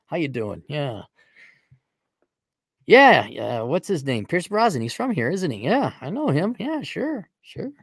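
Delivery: swooping mock Irish lilt; Irish impersonation. Host chats up an Irish official, mock Irish accent. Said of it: "Irish impersonation".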